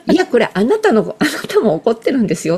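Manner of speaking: firm insistence. Retold or imitated. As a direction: tell them firmly they're angry too. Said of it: "って伝える". (きっぱり言い聞かせる)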